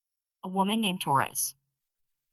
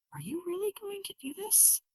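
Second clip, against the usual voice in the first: pleading mother; 6 dB quieter than usual. A narrator's reading.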